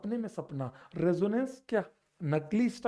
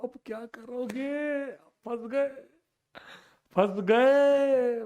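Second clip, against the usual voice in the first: drawn-out, higher teasing call; playful taunt; 5 semitones higher, 4 dB louder, much slower than usual. Acted. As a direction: tease them, stretching the words out. Teasing students stuck on the problem. (चिढ़ाते हुए, खींचकर)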